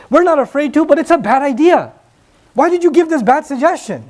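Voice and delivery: retold scolding yell. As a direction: scold the younger ones with mild indignation. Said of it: "the older companions yelled at the younger ones".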